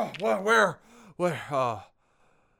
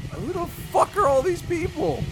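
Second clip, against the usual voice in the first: angry demand; 9 semitones higher than usual. Acted. Confronting strangers.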